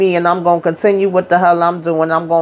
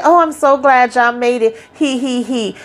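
mock mama; 5 semitones higher than usual. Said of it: "mocking mama laughing at party".

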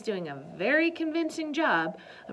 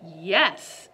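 triumphant; 8 dB louder than usual. Acted. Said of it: "said Alice triumphantly".

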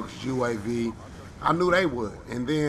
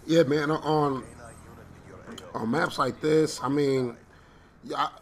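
halting, stumbling over words; stuttering. Real, not acted. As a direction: stutter and restart the phrase. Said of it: "I don't know why I'm stuttering".

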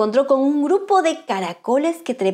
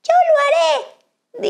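very high, slow squeaky offer; tiny starfish voice; 4 dB louder, slower than usual. Acted. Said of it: "dijo una pequeñita estrella".

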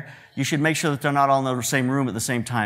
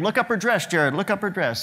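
mild retold yell; 5 semitones higher than usual. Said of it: "yelling at him".

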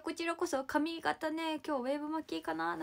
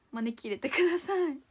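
招き入れてください said louder, with a strong fall on だ; loud plea; 2 semitones higher, 8 dB louder than usual. Real, not acted. Begging fans in Osaka to invite her, louder. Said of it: "招き入れてくださいね".

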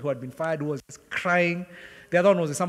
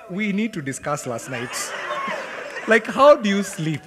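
inner grumble; 5 semitones higher, 6 dB louder than usual. Retold or imitated. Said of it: "in my spirit, I'm like".

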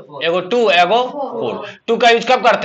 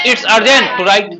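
very slow, every word laid out; slow model sentence; much slower than usual. Shown as a demonstration. Teacher dictating the answer to the class, very slow. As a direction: say it slowly so pupils can repeat it. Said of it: "लिखना अति आवश्यक है".

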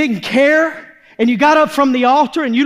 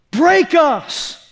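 high, emphatic cry to God; impassioned plea; 4 semitones higher than usual. Acted. Preacher begs God to break the church, impassioned. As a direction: plead it high, then let it fall.

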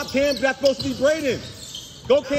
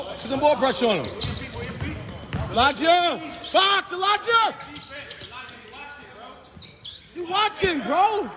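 calling out; 4 semitones higher, slower than usual. Real, not acted. Coach calling player mid-game.

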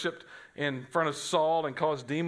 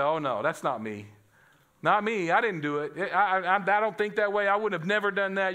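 defensive denial; 2 semitones higher than usual. Retold or imitated. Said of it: "wanna bow up and say".

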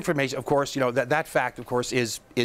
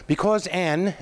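the word "Anne" punched higher; stress on AN; 4 semitones higher than usual. Real, not acted. Host stressing that a single parent complained, emphatic "Anne". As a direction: lean hard on "Anne", as a pointed article. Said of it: "I emphasize that word".

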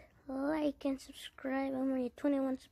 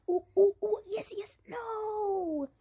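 tense squeals; 8 semitones higher, 6 dB louder than usual. Real, not acted. Tense jump attempt.

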